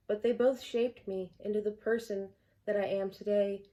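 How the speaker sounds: measured, earnest verse recital; poem reading. Acted. Poet reading own poem Invisible to viewers, poem reading. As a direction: recite line by line in an even cadence.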